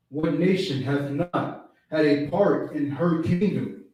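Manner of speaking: slow, measured reading of scripture; reading Bible verse to the study group, slow and deliberate. Acted. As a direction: read the verse slowly and solemnly. Reads scripture verse aloud.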